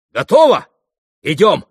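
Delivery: резко выше и громче, торопливо; вскочить и рвануться в путь; всполошившись. A narrator's reading. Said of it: "всполохнулся Митя". (Митя всполошился и торопит)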